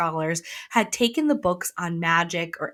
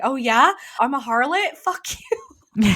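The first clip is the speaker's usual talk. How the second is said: higher, sassy offended comeback; mock indignation; 5 semitones higher, 4 dB louder than usual. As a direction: throw it back as a playful challenge. Retells offended heroine's spiteful comeback.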